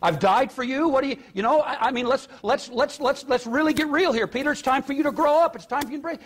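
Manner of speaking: high-pitched, stammering mock confrontation; mock smackdown. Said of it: "Jesus doesn't do a W W E smackdown".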